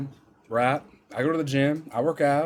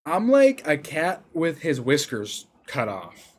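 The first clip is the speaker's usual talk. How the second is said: slow dramatic lament; much slower than usual. Acted. Dramatic self-comparison.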